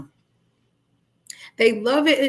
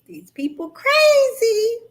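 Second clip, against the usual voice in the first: exasperated aside; 11 semitones higher, 3 dB louder, slower than usual. Retold or imitated. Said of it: "You like".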